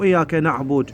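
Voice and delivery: إياك نعبد as "na'bud", cut short; demonstrated mistake, نعبد stopped on d; wrong ending. Shown as a demonstration. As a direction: drop the last "u" of نعبد. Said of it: "مو".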